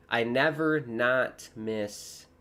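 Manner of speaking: slow, careful slip of wording; drawn out, still saying the double negative "never not"; wrong wording. Shown as a demonstration. Streamer slowly repeats his own slip, wording "never not miss". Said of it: "I should say, I never miss".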